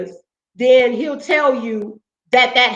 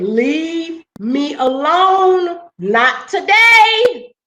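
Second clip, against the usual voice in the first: slow, drawn-out, pointed warning that rises higher and louder on the end; firm warning; 3 semitones higher, 3 dB louder, much slower than usual. Retold or imitated. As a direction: spell it out slowly so he gets it. Telling off yelling security guard.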